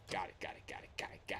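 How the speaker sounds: whispering got it to herself; breathy self-reminder, barely voiced; whispered. Real, not acted. Player whispering to herself while memorizing cameras, hushed.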